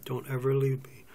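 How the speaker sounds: a touch tearful, held in; close to tears. Acted. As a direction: plead gently, near crying. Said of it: "I'm gonna cry here".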